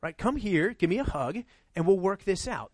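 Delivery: put-on soft, reassuring talk to a kid who messed up; gentle parent. Parent soothing a child after a mistake, gently reassuring. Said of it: "the conversation you have with your kids".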